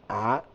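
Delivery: "Ah" made as the Arabic ayn, from the throat; "Ah" as a short, isolated Arabic ayn; ayn sound demo. Shown as a demonstration. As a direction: show "Ah" as the throat consonant ayn. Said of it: "Do you have this sound?".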